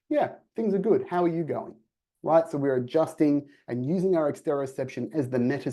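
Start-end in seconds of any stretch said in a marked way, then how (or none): 0.1-1.7 toned-down, even greeting; calm, level reply, easing off the cheer; measured and grounded. Shown as a demonstration. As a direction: bring the energy down to match them. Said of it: "be a bit more measured, a bit more grounded".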